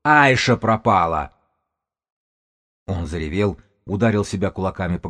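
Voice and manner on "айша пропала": loud, drawn-out cry of despair; desperate slow shout; yelling. A narrator's reading. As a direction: yell it out slowly, in anguish. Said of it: "заорал Додо".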